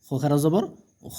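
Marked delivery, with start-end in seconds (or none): 1.2-1.2 long, steadily held vowel; drawn-out vowel. Shown as a demonstration. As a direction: stretch the vowel out evenly. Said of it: "টেনে পড়তে হবে". (টেনে পড়া, লম্বা স্বর)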